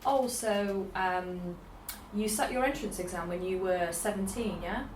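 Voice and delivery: rising yeah tacked on the end; imitating her own leading interview question; leading question tag. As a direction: steer them with a questioning rise. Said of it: "my other habit of".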